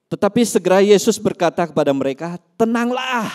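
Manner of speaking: loud, ringing sermon reading; loud scripture proclamation; preaching scripture aloud. Acted. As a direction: proclaim the verse to the congregation. Preacher reads scripture loudly.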